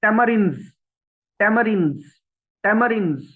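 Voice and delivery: "tamarins" with a clear r; r sounded. Shown as a demonstration. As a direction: tap the r in tamarins. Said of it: "अब आर बोला जाएगा". (tamarins में आर बोलें)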